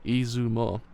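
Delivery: Izumo said slowly and clearly as ee-zoo-mo, correcting him; careful correction. Acted. Eiji patiently correcting Ash's Izumo. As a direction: spell out Izumo patiently, sound by sound. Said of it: "No, that's a gremlin".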